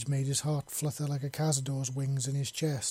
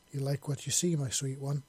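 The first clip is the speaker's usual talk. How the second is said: soft purr. Acted. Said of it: "she purred softly".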